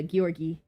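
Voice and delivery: "Georgi" said as "gyor-gee"; hard G glided into "yor" in "Georgi"; Georgi pronunciation. Shown as a demonstration. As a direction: say "Georgi" with a gy sound at the start. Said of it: "supposed to be said".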